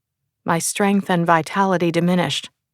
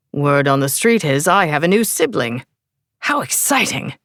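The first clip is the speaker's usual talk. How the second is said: put-on English accent. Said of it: "with an English accent".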